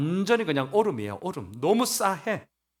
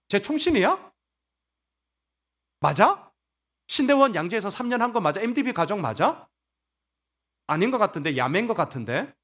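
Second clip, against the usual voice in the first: higher-pitched mock interrogation; nitpicking challenge; 4 semitones higher than usual. Members doubting Paul's seminary degree, nitpicking challenge. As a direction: query it like a doubting busybody. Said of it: "막 이렇게 따지는 거예요".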